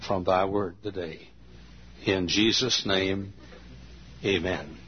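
earnest, measured pastor's prayer. Acted. Pastor praying over the message, earnest. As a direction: ask God's blessing on the message.

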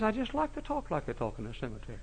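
dead man's talk. Pretend. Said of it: "that's dead man".

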